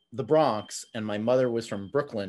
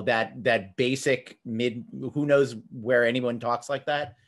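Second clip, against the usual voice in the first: ordinary talk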